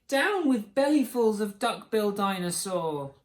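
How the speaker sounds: high-pitched, falling hoot; lightly voiced small dinosaur chanting. A narrator's reading. Drip gets the chant wrong, high hoot. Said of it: "And he hooted".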